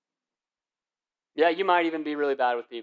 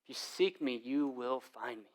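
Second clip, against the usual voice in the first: quiet reading; 3 semitones lower, 7 dB quieter than usual. Shown as a demonstration. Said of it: "God says this".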